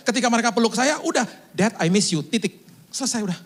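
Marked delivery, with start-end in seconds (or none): 1.5-2.2 brief matter-of-fact greeting; grown child. Retold or imitated. Adult child hugging father, brief understated greeting. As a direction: lightly imitate a grown child, keep it plain. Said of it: "Sekarang mereka udah pada dewasa".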